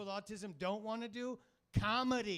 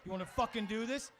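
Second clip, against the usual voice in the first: squaring up, building louder; mock tough guy; 4 dB louder than usual. Comic mocks a guy picking a fight, getting louder. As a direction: puff up and pick a fight. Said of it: "if someone's fucking with you".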